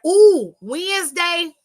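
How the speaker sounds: excited tease. Real, not acted. Host teasing listeners about Wednesday's gossip, excited and drawn out. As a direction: savor it like juicy gossip is coming. Teasing upcoming Becky and Rhea talk.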